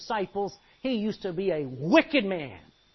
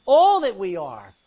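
loud, slow and drawn out; emphatic cry; 11 dB louder, slower than usual. Real, not acted. Preacher urging the congregation to give everything, booming slowly. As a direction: proclaim it to the whole church. Preacher stressing total giving.

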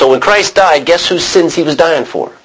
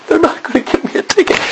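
amazed whisper; faster than usual. Retold or imitated. Driver relieved, to himself.

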